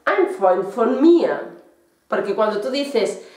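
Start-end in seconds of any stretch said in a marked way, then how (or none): 0.1-1.3 «ein Freund von mir» lento, un poco más alto y fuerte; despacio y claro. Shown as a demonstration. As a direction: repite el ejemplo con énfasis. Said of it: "no confundir mein Freund con". (ejemplo lento y marcado)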